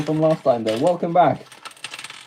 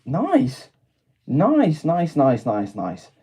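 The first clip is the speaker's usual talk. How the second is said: cheering, then winding down; excited nice; 2 semitones higher, 4 dB quieter, much slower than usual. Real, not acted. Reacting to chat's convention trip, excited then fading. Chat says train to convention.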